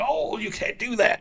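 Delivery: a botched Southern accent, played for laughs; failed Southern accent. A podcaster voicing Harry Potter in a failed Southern accent. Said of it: "I don't know what that accent was".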